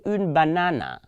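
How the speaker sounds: "une banana" with an English-style final A; "banana" ending in a vowel, not French "banane"; wrong French pronunciation. Shown as a demonstration. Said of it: "I didn't say".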